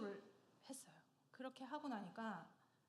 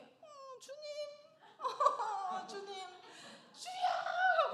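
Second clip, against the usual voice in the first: high wail building to a loud scream; reenacted involuntary cry; 14 semitones higher, 10 dB louder, much slower than usual. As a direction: cry out to the Lord, hammed-up and helpless. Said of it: "소리를 지른 거예요". (자기도 모르게 주님을 부르짖는 절규 재연)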